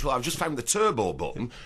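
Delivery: normal talking voice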